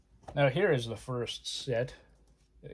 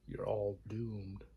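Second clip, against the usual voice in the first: slow doom-laden warning; slow ominous raspy drawl; 5 dB quieter, much slower than usual. Retold or imitated. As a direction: intone it slowly like a crazy prophet. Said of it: "Thank you, Crazy Ralph".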